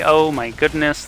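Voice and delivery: excited. Real, not acted. Reacting to big team wipe.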